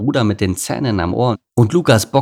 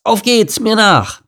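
very high, loud cub call; high-pitched gung-ho yell; rallying shout; 6 dB louder, slower than usual. Acted. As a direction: lead the charge like an excited boy. Cub calls siblings to follow.

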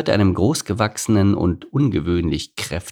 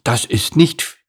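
put-on high, loud childish sulk; slow, high-pitched sulking complaint; sulky pout; 10 semitones higher, 5 dB louder, slower than usual. A narrator's reading. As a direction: drag out the protest like a pouting boy. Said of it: "schmollte Lars".

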